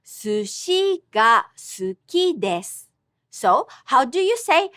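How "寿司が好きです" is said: 寿司が好きです repeated, pitch accent shown clearly; Japanese pitch accent. Shown as a demonstration. Teacher repeating for students, clear pitch accent. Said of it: "Notice the pitch".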